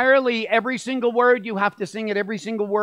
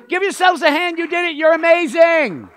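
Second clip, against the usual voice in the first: high, loud congratulation; excited cheering; 10 semitones higher, 6 dB louder than usual. Real, not acted. Leader applauding guests after their sing-along, excited cheering. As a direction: whoop up the crowd, stretching the last word.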